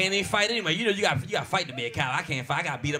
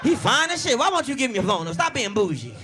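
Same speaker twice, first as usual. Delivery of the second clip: higher, louder teasing scold; mock scolding; 4 semitones higher, 4 dB louder than usual. Husband urging wife to hand over phone, loud mock scold. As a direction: scold her playfully.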